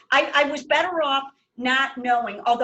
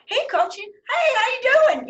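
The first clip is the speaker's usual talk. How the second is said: lightly voiced, higher friendly greeting; hint of the cheerful coach; 13 semitones higher, 6 dB louder than usual. Coach greeting passing fans, lightly voiced and cheerful. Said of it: "You know how he is".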